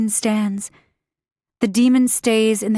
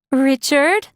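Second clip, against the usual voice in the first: calling out; 4 semitones higher than usual. Acted. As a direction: call out to find him. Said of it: "she calls".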